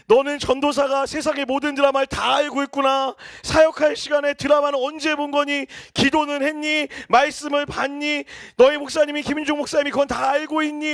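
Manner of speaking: lightly voiced scolding elder; elder's nagging. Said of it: "최 장로님이 이렇게 얘기하는". (드라마 보는 아들을 나무라는 장로 아버지)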